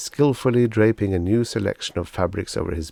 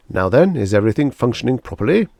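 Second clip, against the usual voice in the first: louder, beaming salesman flattery; gushing salesman; 4 semitones higher, 7 dB louder, faster than usual. Acted. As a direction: lay the praise on thick. Salesman Pathis asks.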